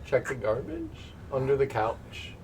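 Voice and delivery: lightly done Ray Romano voice. Acted. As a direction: mumble it Romano-style. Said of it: "This is just how he sounds now".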